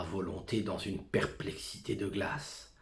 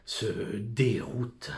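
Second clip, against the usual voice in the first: slow whisper; 2 semitones higher, 5 dB louder, much slower than usual. Acted. Soliloquy, slowed whisper.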